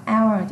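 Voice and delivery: "hour" pronounced without any H; silent H. Shown as a demonstration. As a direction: drop the H of "hour" and begin on the vowel. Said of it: "chữ hơ bị câm ha".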